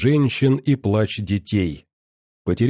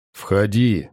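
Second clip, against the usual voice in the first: deep bass; 2 semitones lower than usual. Acted. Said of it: "пробасил Громов".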